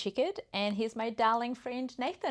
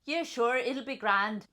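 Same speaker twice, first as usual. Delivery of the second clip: put-on Belfast accent. Player answering a request, put-on Belfast accent. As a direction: try a Northern Irish accent. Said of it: "give us your Belfast accent".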